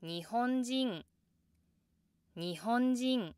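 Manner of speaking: 日本人 starts low, goes high, drops at the end; slow 日本人, climbing after the first sound and stepping down; rise, then downstep. Shown as a demonstration. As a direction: let 日本人 fall below its low start. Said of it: "low pitch after the downstep is often lower".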